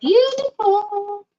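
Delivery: gushing admiration. Real, not acted. Admiring the finished piece.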